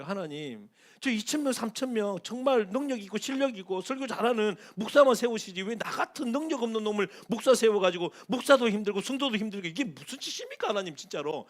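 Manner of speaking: 하나님께 따지듯 좀 크게, 약하게 흉내 낸 화; 답답해서 항의하는 목사를 살짝 흉내; 화내며 하는 기도. Retold or imitated. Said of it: "이렇게 막 화를 냈대요". (하나님께 항의하는 목사의 가벼운 화)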